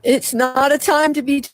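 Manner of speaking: impassioned plea to wake up; fervent preaching. Acted. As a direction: rouse the flock with rising urgency. Relays the Lord's warning message.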